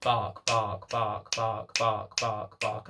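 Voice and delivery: mock barking. Shown as a demonstration. Trainer demonstrating a dog's persistent barking. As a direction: bark the words out in a row.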